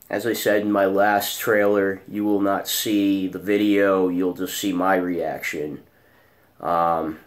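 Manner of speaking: hoarse early morning rasp; just woke up, raspy throat. Real, not acted. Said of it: "this is my early morning raspy voice".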